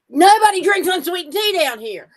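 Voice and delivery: high, loud, laughing through the words; laughing retort. Retold or imitated. Telling the caterer about tea, laughing. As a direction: laugh it out, amused at the Yankee caterer. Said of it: "I said".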